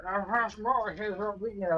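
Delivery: slow mumbled imitation of a drawling farmer; lightly voiced mumbling farmer. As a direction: drag it out like a half-asleep farmhand. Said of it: "he's just mumbling out".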